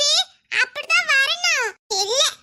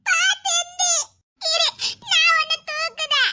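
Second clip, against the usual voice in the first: higher, crying voice helping a fallen friend up; tearful; 3 semitones higher than usual. Acted. Child sobbing to fallen friend, urging her up. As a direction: weep while you coax her to stand.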